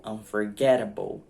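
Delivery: "unforgettable" slowly, punched on "get"; early English stress. Shown as a demonstration. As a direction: hit "get" loudly in "unforgettable". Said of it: "ela vem antes".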